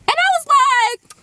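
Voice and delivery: high strangled disbelief with a laugh; stunned teen hearing a slur about herself; shocked. Retold or imitated. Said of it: "the most shocked and disgusted look".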